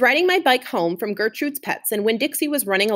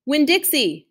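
higher, lighter call after a dog; 6 semitones higher than usual. Acted. Opal calls after her dog as he races away, mild call. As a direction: call him back as he runs off. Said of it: "I called".

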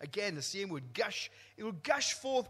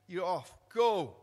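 commanding God; 8 dB louder than usual. Retold or imitated. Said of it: "The Lord said".

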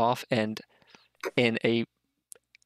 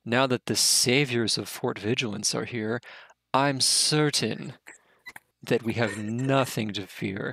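smug king. Acted. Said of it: "Heska turns and looks at you and goes".

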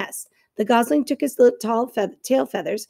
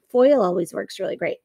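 whisper; 2 semitones lower than usual. Real, not acted. Whispered aside to students.

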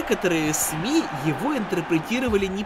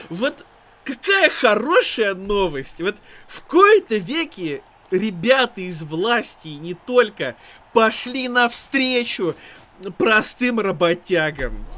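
sarcastic; 4 dB louder, slower than usual. Real, not acted. Mock praise of officials.

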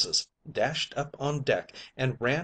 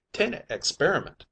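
higher, offended protest; indignant; 6 semitones higher than usual. Acted. The mate protests indignantly to the skipper. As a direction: bristle at the insult, higher. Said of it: "very indignant".

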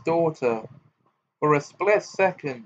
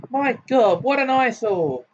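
put-on much higher, distinct haughty girl's voice; 10 semitones higher, 4 dB louder than usual. A narrator's reading. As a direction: sound like a snobbish young lady. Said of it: "rang out a girl's voice".

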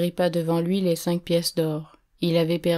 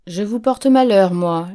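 loud, angry retort thrown back; indignant outburst; 2 semitones higher, 7 dB louder than usual. A narrator's reading. A woman snaps at the gambler who blames her, indignant shout. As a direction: fling his words back at him, outraged. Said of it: "l'apostrophai-je".

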